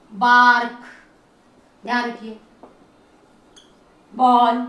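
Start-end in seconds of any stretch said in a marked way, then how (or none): 0.1-0.8 "बार्क" said low and loud, clearly stressed; loud example word. Shown as a demonstration. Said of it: "जैसे आपने लिखना है". 4.1-4.6 "बॉल" said low and loud, clearly stressed; loud example word. Shown as a demonstration. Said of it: "जैसे आपने लिखना है".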